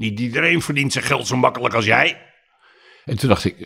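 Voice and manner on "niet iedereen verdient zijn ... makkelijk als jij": mock irritated, fed-up outburst, pitched up. Recalling something a man once shouted, retelling an irritated shout. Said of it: "geërgerd geroepen".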